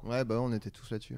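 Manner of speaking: talking while eating a chip; crunching chips. Real, not acted. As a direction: mouth full of chips. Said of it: "Pardon, je mange une chips". (en mâchant des chips)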